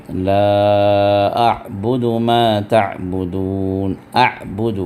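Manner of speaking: slow recitation stressing the ain; tajweed drill; ain practice recitation. Shown as a demonstration. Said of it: "یہاں پڑھیں گے".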